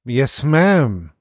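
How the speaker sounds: "Yes, ma'am" breathed through the nose; mock Paris, air through the nose; nasal Paris imitation. Shown as a demonstration. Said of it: "Du musst mehr durch die Nase atmen".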